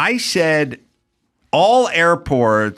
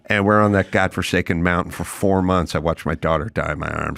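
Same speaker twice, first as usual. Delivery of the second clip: low, somber, lightly voiced pioneer; deadpan, a survivor shaming a whiner; grim Donner Party survivor; 5 semitones lower than usual. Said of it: "Donner Party guy would be like".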